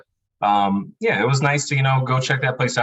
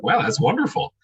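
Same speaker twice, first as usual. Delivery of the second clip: higher-pitched retold delight; delighted reaction; 9 semitones higher than usual. Husband reacting to his wife's Christmas tickets, delighted. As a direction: replay a pleased wow, pitched up. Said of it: "I'm, like, excited".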